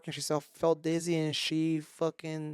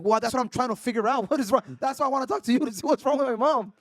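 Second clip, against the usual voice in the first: retold heated reply; 6 semitones higher, 4 dB louder than usual. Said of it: "and I'm like".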